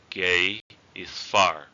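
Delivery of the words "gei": "gei" with a small upward slide; rising tone. Shown as a demonstration. Teacher repeating the word for far, rising tone on "gei". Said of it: "raising tone".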